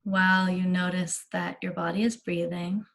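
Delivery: unhurried meditation guide with long pauses; measured, spacious meditation delivery; guided meditation. Real, not acted. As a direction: ease them gently into relaxation, leaving space between phrases.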